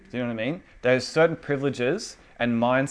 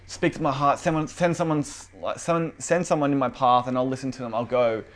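mock pleading; 3 semitones higher than usual. Child begging dad to let them go to school, mock pleading. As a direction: plead with exaggerated earnestness, stretching the key words. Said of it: "you would never speak to, like, your dad like that".

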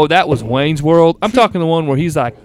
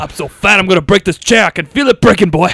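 put-on Colonel Sanders accent; 2 semitones higher, 3 dB louder, faster than usual. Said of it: "You Colonel Sanders accent now".

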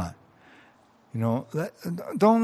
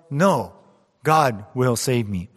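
yelled refusal; 5 dB louder, slower than usual. Retold or imitated. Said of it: "The man yelled".

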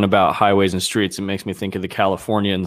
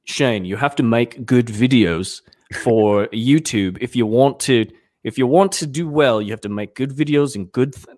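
shaky attempt at an unplaced accent; Paul. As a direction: drift through an uncertain accent while imitating someone. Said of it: "I try to do Paul".

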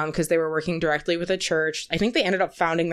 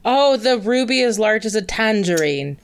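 a touch louder, drawn into the movie speech; Michael Caine; 3 semitones higher, 4 dB louder than usual. Acted. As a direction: lightly imitate the actor's tangerine monologue. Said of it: "the weird-ass tangerine speech".

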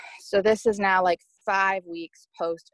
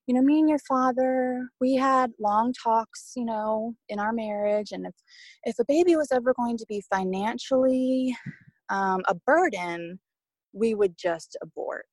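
mom's voice, pitched higher, lightly played; a hint of her mother explaining calmly; imitating mom; 4 semitones higher than usual. Mother on Zoom explaining her views on abortion, lightly imitated higher voice. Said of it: "She was like".

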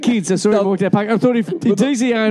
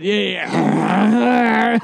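long mock ghostly growl; imitated dad's spooky noise. Host retells dad freaking out the sisters, mock ghost noise. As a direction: draw out a silly haunting noise. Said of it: "then the dad was all into it".

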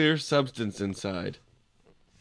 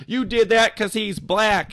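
higher, louder accusing mom; angry mom; 9 semitones higher, 7 dB louder than usual. Retold or imitated. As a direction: snap at the driver like an angry mom. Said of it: "the mom was like".

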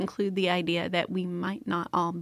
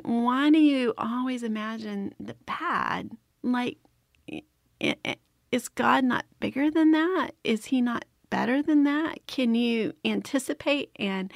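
higher-pitched, gently challenging questions; Holy Spirit, retold; 3 semitones higher than usual. Holy Spirit challenging a worried wife, retold questioning. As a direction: press each question as a lightly voiced prompting. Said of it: "the Holy Spirit was saying".

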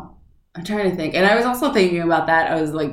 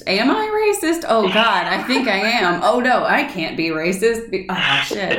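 mock anxious inner voice; 5 semitones higher than usual. Mock inner racist panic.

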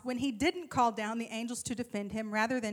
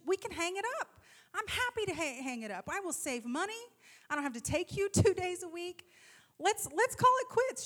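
higher, put-on reasonable mom voice; talking reasonably; 5 semitones higher than usual. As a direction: offer her an out, lilting upward. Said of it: "I'm gonna talk reasonably".

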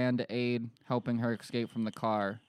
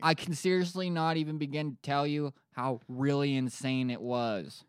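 hammed-up eyewitness, a little higher; mock witness; 4 semitones higher than usual. Woman describing sinkhole to reporters, hammed-up witness. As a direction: overplay the witness's astonishment.

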